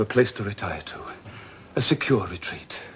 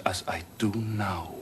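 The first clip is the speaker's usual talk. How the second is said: whisper; 4 semitones lower, 7 dB quieter than usual. Acted. Whispered tender pledge.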